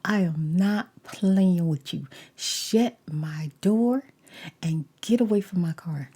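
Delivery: warning him to get away from her car. Retold or imitated. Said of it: "I said".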